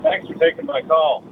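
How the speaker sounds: distant, faint phone voice; talking from across the room; far from mic. Real, not acted. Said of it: "It sounds like you're in the other room".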